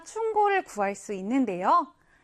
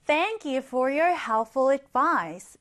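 very slow, clear English sentence; slow teacher's reading; slow example read; much slower than usual. Shown as a demonstration. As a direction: read it word by word for learners. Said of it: "예를 들어서".

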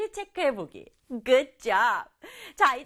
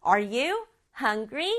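slow repeat with a rise on "you"; slow model question; much slower than usual. Shown as a demonstration. Teacher repeating the question slowly for children. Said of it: "이렇게 물어볼 수가 있겠죠".

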